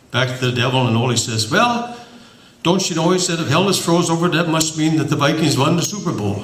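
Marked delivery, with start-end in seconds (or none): 1.5-6.4 lightly voiced chipper Ole, higher; a hint of a pleased Minnesotan farmer, higher; mild put-on Ole for the punchline, raised pitch; Ole's voice.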